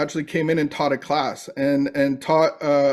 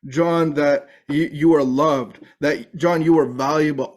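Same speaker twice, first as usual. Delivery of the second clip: gentle affirmation. Retold or imitated. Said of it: "the voices of earlier in that day".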